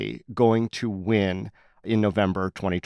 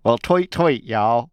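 Dina Titus as Southern canary; slower than usual. Retold or imitated. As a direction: chirp it like a little songbird, then drawl the y'all. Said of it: "That's my Dina Titus as a canary in the coal mine".

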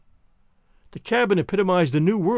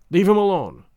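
a louder, hard order; harsh command; 5 dB louder than usual. Acted. Husband orders wife away from the body, louder and harsh. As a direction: snap it out as a command. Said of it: "Hans commanded harshly, in a strange voice".

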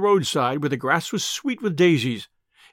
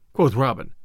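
ordinary delivery, nothing marked

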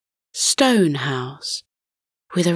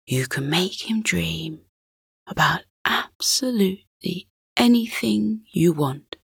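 hushed suspense. Acted. Father answers son in hush.

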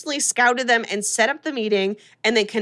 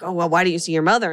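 nosy; 4 semitones lower, faster than usual. Retold or imitated. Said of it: "oh, nosy".

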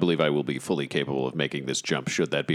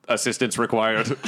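yelling; 6 semitones higher than usual. Acted. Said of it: "I will yell over to Cobalt".

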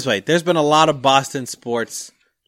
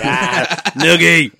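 playful Tommy voice; 3 semitones higher, 4 dB louder, much slower than usual. Retold or imitated. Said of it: "He's like".

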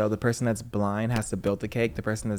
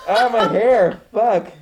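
pained yelp; 9 semitones higher, 7 dB louder, much slower than usual. Real, not acted. Hood pulls on hair.

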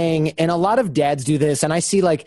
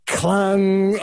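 higher-pitched, ringing clang noise; imitated clang; 5 semitones higher than usual. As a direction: mimic metal hitting a head, drawn out. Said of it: "and there's this".

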